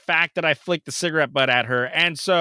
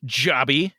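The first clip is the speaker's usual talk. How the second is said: slow mock cop; 5 semitones higher, slower than usual. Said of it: "so he goes".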